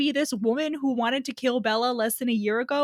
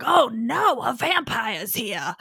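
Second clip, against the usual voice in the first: mock alarmed Jacob; slower than usual.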